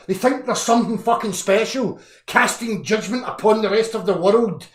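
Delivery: angry rant. Real, not acted. Rant against judgmental people.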